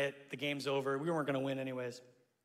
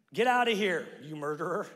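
mock shout. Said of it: "he's shouting this".

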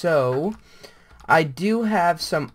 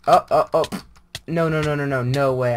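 real alarm; 7 dB louder, faster than usual. Real, not acted. Mob trapping him in game.

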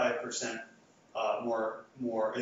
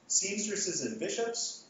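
slow, rising first option read out to the class; slow test reading; 7 semitones higher, much slower than usual. Shown as a demonstration. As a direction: lay out the first choice slowly and evenly. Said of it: "I'm going to give you two ordered expressions".

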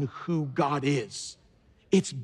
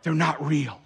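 a laughing punchline; laughing reveal; 3 semitones lower than usual. Real, not acted. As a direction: say "They're not real" through a laugh. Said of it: "I'm about to shake your world up".

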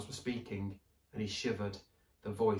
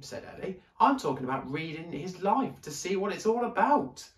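put-on much higher, lively little girl; girl's voice; 5 semitones higher, 6 dB louder than usual. A narrator's reading. Ellie wondering at the library, much higher girl voice. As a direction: marvel aloud like an excited child.

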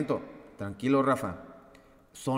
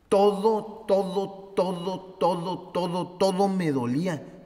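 higher, strained voice of remembered pain; strained, higher-pitched "todo, todo"; strained pained cry; 5 semitones higher than usual. Retold or imitated. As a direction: let the pain push the voice up. Reliving full-body pain.

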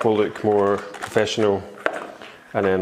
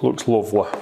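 looks lovely in a light Yorkshire accent, lovely said as luvly. Shown as a demonstration. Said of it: "I should say it in a Yorkshire accent".

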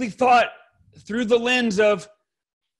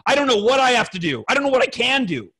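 quick, higher-pitched giving up; exasperated; 4 semitones higher, faster than usual. Retold or imitated. Husband giving up on pleasing his wife, exasperated. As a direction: throw your hands up in frustration. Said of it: "and I throw my hands up".

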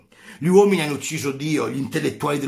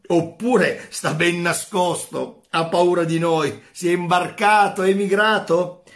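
mocking; 4 semitones higher, 4 dB louder than usual. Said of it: "gridavano e ridevano".

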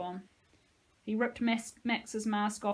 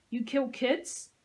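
menacing; 4 semitones higher, slower than usual. Acted. Josie menaces the soldier she is beating, slowly. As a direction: drag each word out as a threat.

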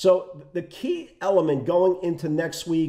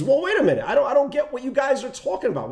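mock bear voice; 7 semitones higher, faster than usual. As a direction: laughingly imitate the bear who can't believe the bulls. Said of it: "The bear case is".

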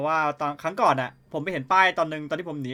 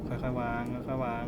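careful hush; 5 semitones lower, 6 dB quieter, slower than usual. Real, not acted. Placing item silently.

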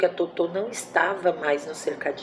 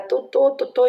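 much higher and louder, desperate calling; shouting her name; 8 semitones higher, 6 dB louder than usual. Retold or imitated. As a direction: yell the pet's name to wake her. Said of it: "E a gente começou a gritar". (gritando o nome da porquinha, desesperada)

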